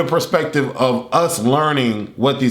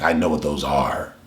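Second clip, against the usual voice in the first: Kawaki; 11 semitones lower, 4 dB quieter than usual. Retold or imitated. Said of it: "and he's like".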